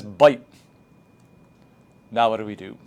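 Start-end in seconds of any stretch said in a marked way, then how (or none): 0.0-0.4 put-on a child's tentative guess, rising at the end; student's wrong answer. Shown as a demonstration. Student reading a word wrongly, unsure. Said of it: "Student says".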